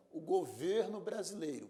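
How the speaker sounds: "governo" with a closed stressed e, as in "ê"; closed-vowel pronunciation. Shown as a demonstration. Teacher using the noun in a phrase, closed-e "governo". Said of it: "pronúncia fechada".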